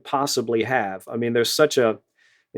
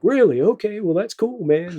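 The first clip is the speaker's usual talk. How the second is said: much higher, imitated pleasant surprise; retold pleased surprise; 8 semitones higher than usual. Sax player hears his songs are used, imitated pleased surprise. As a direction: play the musician taken aback, voice lifted high. Retold musician reacting to director's praise.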